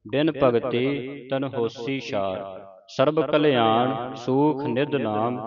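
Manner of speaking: measured Gurbani recitation with drawn-out vowels; scripture recitation. Acted. Teacher reciting Gurbani for students to follow, measured recitation. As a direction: recite each phrase clearly, pausing between phrases.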